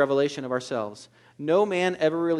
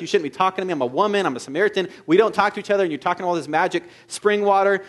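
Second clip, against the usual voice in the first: louder, teasing woman's retort; mocking; 3 semitones higher, 4 dB louder, faster than usual. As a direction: poke fun at the odd stranger. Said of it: "making fun of this".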